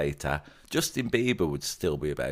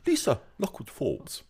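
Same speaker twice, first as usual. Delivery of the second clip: put-on posh accent, higher pitched; 8 semitones higher than usual. Co-host hammily reading a listener's comment, mock posh accent. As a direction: have a go at a posh English accent. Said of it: "I'll try it in a posh voice".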